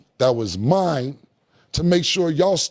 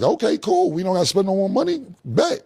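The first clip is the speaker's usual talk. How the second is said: mock eager promoter voice, higher and fast; relieved promoters; 6 semitones higher than usual. Cam mimics promoters happily agreeing to save money, higher and fast. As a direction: imitate the festival guys jumping at the deal, pitched up and quick.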